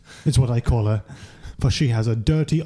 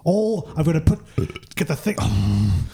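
indignant chef; 4 semitones higher, faster than usual. Acted. Tony ranting in character.

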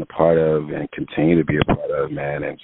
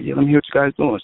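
mimicking Will; 9 semitones higher, 3 dB louder, much faster than usual. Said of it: "Will was like".

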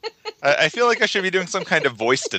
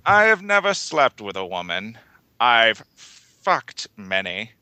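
creep voice; 2 semitones higher than usual. Acted. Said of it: "you found the right tone for this".

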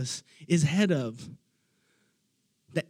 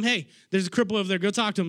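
quick inner voice; much faster than usual. Retold or imitated. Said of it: "the Holy Spirit starts telling them".

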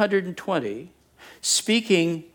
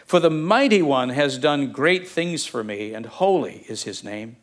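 scripture reading. Acted. Pastor reads Mary's song to the congregation, solemn reading. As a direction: read it as a solemn hymn of praise.

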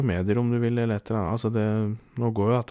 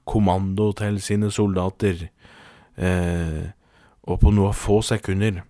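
measured, deliberate storytelling; story narration; 2 semitones lower than usual. A narrator's reading. Podcast host introduces the general to listeners, measured storytelling. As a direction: tell it as a solemn tall tale. Reads out a comic tall tale.

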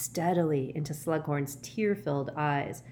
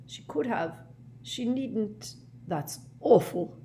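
horrified; 5 semitones higher, slower than usual. A narrator's reading. Slughorn horrified by mother's death.

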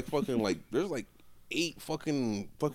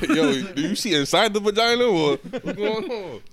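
excited crude question; 6 semitones higher, 8 dB louder, slower than usual. Acted. Asking God crude question.

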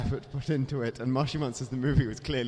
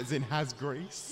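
slow explanation; 5 dB quieter, slower than usual. Real, not acted. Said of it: "explaining the coined word".

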